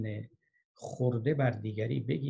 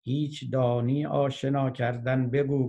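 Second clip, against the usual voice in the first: louder, slow verse with a drawn-out ending; mild declaimed call; 6 dB louder than usual. Acted. Boatman calling to the grammarian in the storm, loud measured recitation. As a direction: project the question as a restrained, recited shout.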